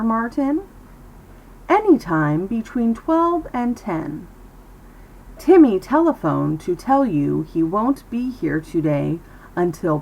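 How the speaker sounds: careful reading with crisp Ts; practice story reading. Shown as a demonstration. Teacher reads a practice story to students, careful enunciation. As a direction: read it out clearly, lifting the questions. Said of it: "Let me read you the story".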